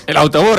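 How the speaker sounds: imitando con énfasis "autobús", agudo; AUTOBÚS remarcado. Retold or imitated. (recalca "autobús" en tono alto, como imitando)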